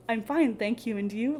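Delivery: "I'm fine, thank you, and you?" recited in an even, mechanical robot tone; a hint of a stiff, memorized robot reply. Shown as a demonstration. Teacher mimicking the textbook answer students repeat, mildly robotic. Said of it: "like a robot".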